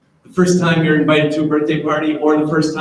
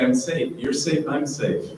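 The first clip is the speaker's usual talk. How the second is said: calm self-talk; 6 dB quieter than usual. Retold or imitated. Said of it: "I can look up and say".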